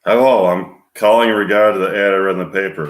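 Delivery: put-on half-hearted Scottish accent, loud start. Caller answering a newspaper ad, shaky attempt at Scottish. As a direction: attempt a Scottish accent, not quite managing it. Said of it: "with Scottish accent and a high, shrill woman's voice".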